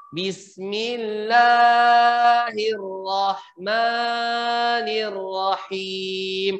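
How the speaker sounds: slow Bismillahirrahmanirrahim with a flawed R; imperfect recitation. Shown as a demonstration. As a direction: recite it carelessly. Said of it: "Itu bukan bacaan yang sempurna".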